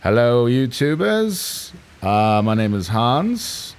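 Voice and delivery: slow, deliberate host voice; drawn-out mock ghost hunter intro; copying the ghost hunter. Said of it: "I'm gonna copy his shit exactly".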